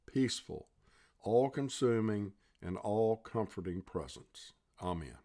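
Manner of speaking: earnest, measured prayer voice. Acted. Leads a closing prayer.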